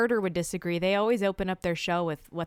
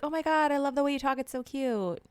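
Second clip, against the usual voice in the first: quick, higher mock gush; imitated gushing; 4 semitones higher than usual. Mimicking someone fawning over Southern accent, mock gushing. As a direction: gush in a rush, putting it on.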